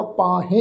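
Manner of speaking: ਪਾਹੇ ending in a nasal e; nasalised ending. Shown as a demonstration. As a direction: finish ਪਾਹੇ through the nose, like "pahen". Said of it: "ਇਸ ਢੰਗ ਨਾਲ ਹੀ ਆਏਗੀ".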